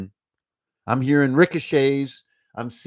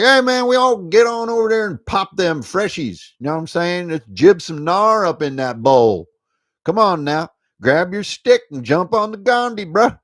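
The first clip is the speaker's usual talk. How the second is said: higher, louder stoked snowboarder bro voice; snowboarder dude; 5 semitones higher, 7 dB louder than usual. Retold or imitated. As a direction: hype up the crew like a ski-slope bro. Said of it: "Then you're like".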